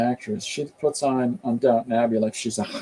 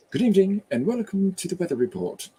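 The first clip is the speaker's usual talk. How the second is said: higher-pitched mock weather announcer; BBC weather presenter; 7 semitones higher than usual. Presenter opening the weather report, in a put-on broadcast voice. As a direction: imitate a formal BBC forecast greeting. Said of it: "B B C weather or Welsh weather report".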